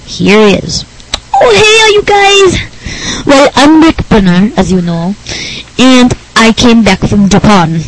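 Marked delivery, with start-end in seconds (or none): 1.3-7.8 slow, squealed hello settling into an odd nerdy voice; Rick Berner. Acted. Nerd guest greets podcast listeners, goofy put-on voice.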